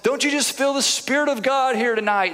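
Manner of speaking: preacher's kid mocking a showy revival call; hyped-up preacher. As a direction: ham up a hype preacher working the crowd. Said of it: "you see every little bit of hype".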